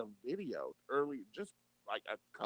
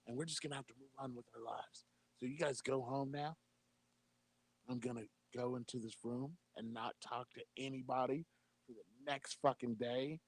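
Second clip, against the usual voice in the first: a hushed, lightly voiced Trump sending his fans home; Donald Trump impression. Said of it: "It's amazing how much you sound and look like him".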